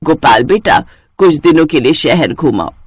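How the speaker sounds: low, loving mother-in-law voice; lightly voiced mother-in-law. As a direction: bless the new bride from the heart. (धीमी, प्यार भरी सास की आवाज़)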